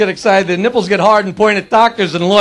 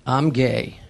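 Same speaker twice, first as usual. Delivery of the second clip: low, measured authority figure; sergeant; 11 semitones lower, 7 dB quieter than usual. Acted. Sergeant to a scared skydiver, low and deliberate. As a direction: state it gravely in a deep voice. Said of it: "And he said to me".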